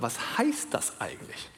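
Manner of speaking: hushed, searching whisper. Real, not acted. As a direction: drop to a whisper as if wondering aloud. Rhetorical question to congregation.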